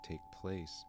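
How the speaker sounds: hushed-down, calm meditation guide; relaxed, understated meditation voice; guided meditation. Acted. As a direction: talk listeners gently through body sensations. Leads a meditation on sensations.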